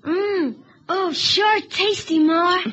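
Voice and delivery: loud, sarcastic mock praise; sarcastic shout. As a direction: shout the fake compliment. Boy mocks mother's meal.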